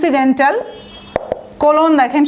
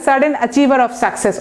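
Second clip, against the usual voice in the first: slow dictation; much slower than usual. Shown as a demonstration. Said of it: "বইয়ে আছে দেখবেন".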